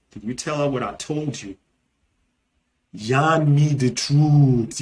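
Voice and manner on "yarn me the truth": Nigerian Pidgin. Shown as a demonstration. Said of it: "in Nigerian Pidgin English".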